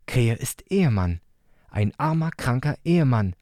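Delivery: hohe, ernste Kinderstimme; ernster kleiner Bruder. Acted. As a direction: feierlich ernst wie ein kleiner Junge. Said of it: "sagte Leo ernst". (hohe, ernste Kinderstimme)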